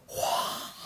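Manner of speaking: voiceless, exhaled "wouah"; long breathy whoosh. Pretend. Told to slow down, reacts. (grand souffle sans voix)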